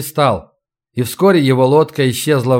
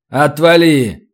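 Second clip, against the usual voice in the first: harsh order; slower than usual. Acted. Razin shoves Tim away.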